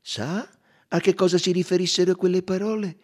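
loud, high detective quoting with deliberate emphasis; Poirot incalza. Acted. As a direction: press the witness as Poirot, voice up. (Poirot inquisitore, voce forte e acuta)

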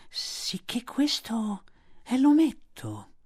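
slow, high python. A narrator's reading. Kaa looks Mowgli over, slow and curious. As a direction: draw out each word. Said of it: "disse Kaa".

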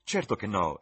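put-on high, loud boyish protest; emphatic youthful exclamation; exclaiming. A narrator's reading. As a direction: exclaim it eagerly, jumping in. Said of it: "esclamò Dorian".

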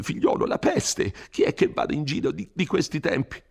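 frightened priest warning of plague; Don Abbondio, alarmed. Acted.

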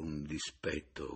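plain reading voice

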